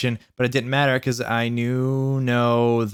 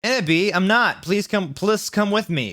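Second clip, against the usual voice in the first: high, begging whine; hammed-up lovesick plea; pleading Draco; 7 semitones higher than usual. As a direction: plead on his knees.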